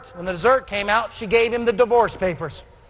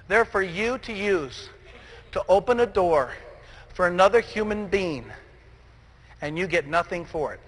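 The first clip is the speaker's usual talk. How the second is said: soft, lowered intimate delivery; hushed sincere close; 3 semitones lower, 5 dB quieter than usual. Acted. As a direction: drop to a near-hush and let it land. Hushed closing reflection.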